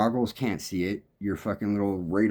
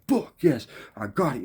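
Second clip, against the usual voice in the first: mild excited yes; 4 semitones higher than usual. Retold or imitated. Excited at landing the recording.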